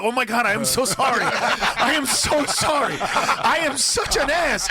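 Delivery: grovel with a laugh in the voice; overly apologetic customer. Retold or imitated. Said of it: "You'd be like".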